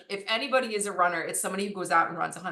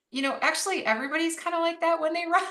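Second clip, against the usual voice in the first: laughing; 9 semitones higher, faster than usual. Real, not acted. Her reply, laughing.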